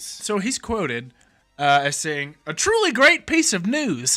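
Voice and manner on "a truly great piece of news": put-on very high, swooping old-timey British accent. Reading out a quote from a man in his mid-90s, old-timey British accent. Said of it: "There's that British accent".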